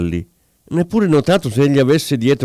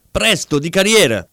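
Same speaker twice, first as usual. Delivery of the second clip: raised, hurried cry; urging shout; 6 semitones higher than usual. A narrator's reading. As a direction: urge the driver on up high. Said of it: "non fece che gridare al vetturino".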